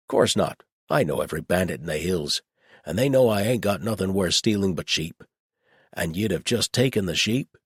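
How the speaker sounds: matter-of-fact rustic reasoning; gruff old shepherd. Acted. Old shepherd working out where the strangers came from, plainspoken.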